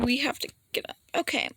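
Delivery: hushed, urgent little aside; whispered aside. Real, not acted. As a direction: whisper it quickly to someone beside you. Aside to someone off mic.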